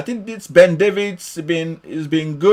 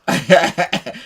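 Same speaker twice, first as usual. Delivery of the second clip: amused chuckle; laugh. Real, not acted. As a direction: chuckle between remarks. Amused by an unseen comment.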